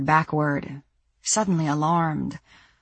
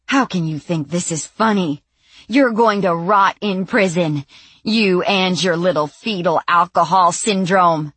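angry; 3 semitones higher, 5 dB louder than usual. Acted. Sandy raging and insulting.

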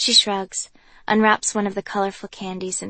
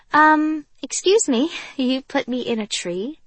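incredulous; 6 semitones higher, 4 dB louder than usual. Acted. Incredulous at waking in tree.

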